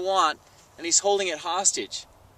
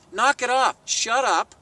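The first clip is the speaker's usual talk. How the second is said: a sharp, raised telling-off; mock scolding, pitched up; higher, louder scolding; 5 semitones higher, 3 dB louder, slower than usual. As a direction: snap at them to stop talking. Scolding salespeople who overtalk.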